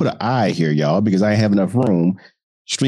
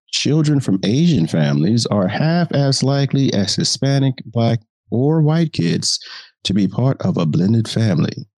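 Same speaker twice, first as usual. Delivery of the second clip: reporter voice; 3 semitones higher than usual. Acted. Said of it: "the reporter voice allows me".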